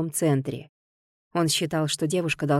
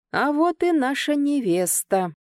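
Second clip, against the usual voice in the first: higher, slow, dripping with venom; venomous; 8 semitones higher than usual. Acted. Ganer mocking the bride he found under the table, venomous. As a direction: pour poison over every word. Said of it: "разлился ядом он".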